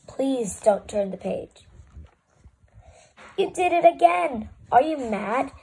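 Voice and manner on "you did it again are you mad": exasperated disbelief. Acted. Book reacts to page turn.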